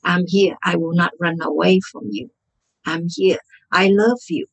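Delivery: lightly soothing self-talk; gentle reassurance. Shown as a demonstration. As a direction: speak gently to your own hurt, as to a child. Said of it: "by just gently saying".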